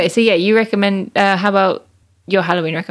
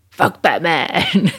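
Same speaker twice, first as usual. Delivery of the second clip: laughing; much slower than usual. Real, not acted. Joking dismissal while laughing.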